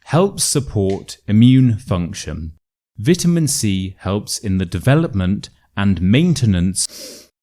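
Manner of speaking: label read slowly, every word from "Helps support" overpronounced; over-exaggerated pronunciation. Shown as a demonstration. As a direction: exaggerate each sound in "immune function", word by word. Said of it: "let me give you a quick example".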